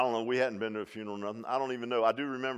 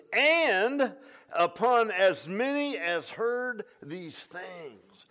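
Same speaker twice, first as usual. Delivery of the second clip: preached scripture; 7 semitones higher, 9 dB louder, much slower than usual. Acted.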